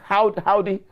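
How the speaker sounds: put-on hesitant, half-hearted American accent try; a shy attempt at an American cowboy greeting. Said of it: "I can't do an American accent".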